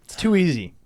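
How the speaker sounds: whispering. Real, not acted. Whispered repeat.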